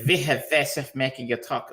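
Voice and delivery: badly faked Dutch accent. Shown as a demonstration. Host showing how the film's accent sounded, bad Dutch accent. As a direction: attempt a clumsy Dutch accent, slipping toward German. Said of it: "me trying to do a fucking Dutch accent".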